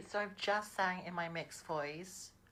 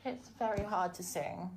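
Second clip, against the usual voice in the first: raised pitch. Shown as a demonstration. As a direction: lift the pitch up deliberately. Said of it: "I'm trying to raise my voice and my pitch".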